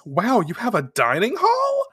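acted wow of astonishment; amazed. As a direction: mimic an impressed newcomer's question. Acted amazed reaction to dining hall.

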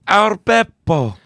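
high and drawn out; high, slow sing-song. Acted. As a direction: sing the name up high, slowly. Playful repeat of name.

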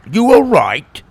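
high, loud concerned question; worried. A narrator's reading. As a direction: check on him urgently. Tim worried after splashing.

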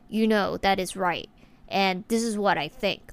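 "You know, that is right. And this is what I think" with each sentence ending downward; falling authoritative ending. Shown as a demonstration. Showing how an authority figure speaks, falling firm endings. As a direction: drop the last word firmly, sure of yourself. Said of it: "end the last word or sentence downwards".

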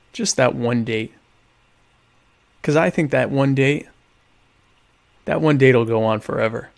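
measured campaign announcement; stately, lightly solemn appeal; mock formal endorsement. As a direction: make an earnest pitch, pausing between phrases.

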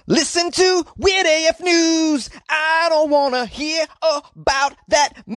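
high, slow British falsetto grandma; Monty Python accent. Acted. Podcaster mocking listeners in a Monty Python accent. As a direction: shriek it slowly like a Python old woman. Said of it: "I don't know why I did that accent".

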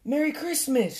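high-pitched squirrel call; cheery shout. A narrator's reading. Squirrel calling a Christmas greeting to Badger, cheery high shout. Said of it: "shouted Squirrel".

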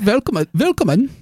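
high, hammed-up German accent with v sounds; mock German welcome. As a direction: greet them like a jolly German host. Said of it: "we say to you".

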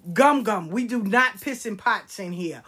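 put-on mildly scandalized child scolding grandma; imitating an appalled five-year-old; horrified. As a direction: scold in disbelief, stressing each point. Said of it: "She thought that was so horrible".

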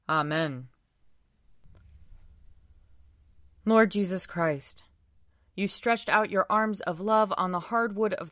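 solemn prayer. Acted. Leads prayers at a service.

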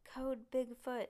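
loud, slowed call to action; shouted alarm. A narrator's reading. Stink yells to the others to chase. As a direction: yell it out to the others. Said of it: "yelled Stink after him".

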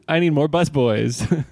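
high, slow pretend plea; mock desperate owner. Co-host joins the restaurant bit, in a slow mock-desperate voice.

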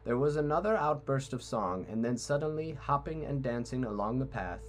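a lightly read storybook passage; story narration. Acted. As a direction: read it like an audiobook. Reads book excerpt aloud.

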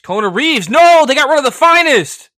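loud, high wail of protest; mock anguished outcry. Wrestling fan reading the release list, hammed-up dismay. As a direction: cry out as if your favorite just got axed.

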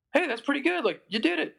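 high, bright-pitched imitation of a friend's praise; lightly voiced friend cheering him on. A friend praising him after the show, in a high imitating voice. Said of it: "I remember Gavin saying".

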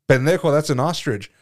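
shouted through a burst of laughter; laughing out the story's punchline. Real, not acted. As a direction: lose it while delivering the line. Retelling dad's punchline, cracking up.

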